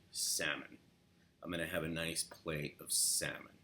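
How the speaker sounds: assertive New York. Shown as a demonstration. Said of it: "Very aggressive, assertive".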